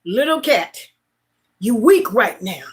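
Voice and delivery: reassuring the kitten. Retold or imitated. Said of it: "I said".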